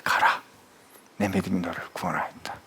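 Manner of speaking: low, soft, hushed words; gentle pronouncement. Acted. Jesus sends the healed blind man off, low hushed voice. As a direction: drop low and quiet to grant it.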